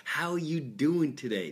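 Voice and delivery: slow, drawn-out mimicked greeting; imitated beggar. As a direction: lightly mimic a beggar's leading question. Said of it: "when a beggar comes up to you and he's going".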